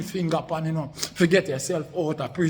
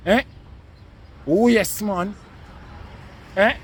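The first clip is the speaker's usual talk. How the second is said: heated shouting; 3 semitones higher than usual. Real, not acted. Ranting at online rival.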